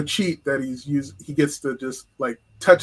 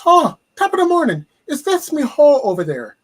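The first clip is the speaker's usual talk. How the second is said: high, loud mock Irish brogue, laughing; a laughing Irish brogue pimp voice calling out; Irish pimp impression; 13 semitones higher, 10 dB louder than usual. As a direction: ham up a stage-Irish leprechaun pimp in an Irish brogue. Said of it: "character called Lucky the Irish Pimp".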